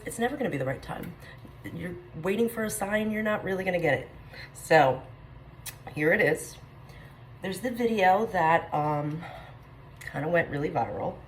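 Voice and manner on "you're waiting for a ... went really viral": out of breath. Real, not acted. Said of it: "I'm sorry I'm out of breath".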